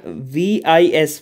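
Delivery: "V I S" slowly, each letter separate; spelled out letter by letter. Shown as a demonstration. Teacher pointing to the syllable before the suffix, "V I S" spelled slowly. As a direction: spell "V I S" out at an unhurried pace.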